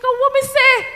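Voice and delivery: put-on high, loud hurt child voice; tearful child. Child getting feedback from an adult, high hurt wail. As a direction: play the child bursting into tears. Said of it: "And they're like".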